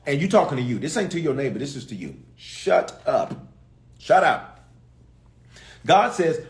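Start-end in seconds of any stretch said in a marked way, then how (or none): 2.3-4.7 aggressive self-command. Shown as a demonstration. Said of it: "get a little aggressive with yourself".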